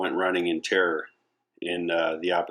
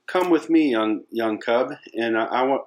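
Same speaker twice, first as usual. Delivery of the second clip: commanding adult lion; 4 semitones higher, 3 dB louder than usual. Acted. Adult lion urges cub along.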